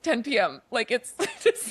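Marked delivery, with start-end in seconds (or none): 0.0-0.6 halting phrases with a pause after each; deliberate, telegram-style delivery; slow short sentences. Retold or imitated. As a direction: imitate a painfully slow phone tip. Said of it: "he's saying them so slowly".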